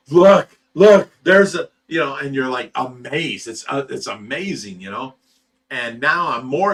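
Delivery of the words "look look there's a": loud, high excited call; excited shout. Retold or imitated. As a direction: point and shout, thrilled. Retelling spotting sturgeon in pond.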